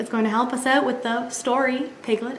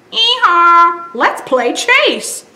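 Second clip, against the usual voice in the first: louder braying hee-haw then slow; donkey bray; 7 semitones higher, 6 dB louder, much slower than usual. Acted. Donkey inviting piglet to chase, braying. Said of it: "said Donkey".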